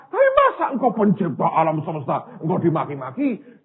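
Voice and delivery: worked-up protest to God, rushing in places; indignant plea. Acted. King complaining to God over insults, indignant plea. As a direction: plead as if provoking God into action.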